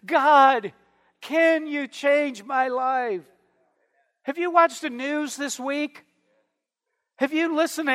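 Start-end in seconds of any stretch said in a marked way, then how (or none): 0.0-3.2 slow, drawn-out appeal to God; measured cry for help. Acted. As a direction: call on God firmly, then stretch out the plea. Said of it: "crying out and saying".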